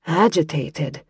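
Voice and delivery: quiet Scots mutter. Acted. Kira mutters back at her cousin's word, quietly. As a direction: grumble it under her breath. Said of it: "Kira muttered".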